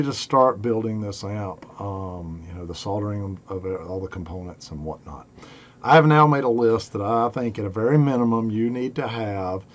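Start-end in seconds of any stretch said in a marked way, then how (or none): 5.9-9.7 hoarse from a cold; raspy, worn-out voice. Real, not acted. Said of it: "sorry about my raspy voice".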